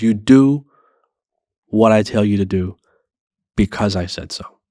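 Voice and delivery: a hint of a stern parent barking orders; lightly voiced parent laying down the law; strict old-school parent. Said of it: "It was".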